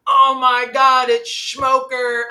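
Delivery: high, loud excited shriek of recognition; retold scream. Nurse spotting an old friend in the hospital room, shrieking. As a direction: imitate the nurse shrieking his name. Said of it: "turns around and screams and goes".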